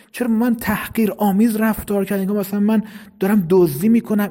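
mildly acted aggrieved child; aggrieved complaint. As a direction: rattle off indignant grievances, one after another.

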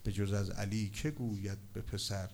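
low, measured verse recital; poem recitation. Acted.

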